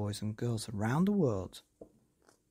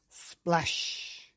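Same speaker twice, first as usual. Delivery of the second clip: splash effect; 3 semitones higher than usual. A narrator's reading. Pool splash sound.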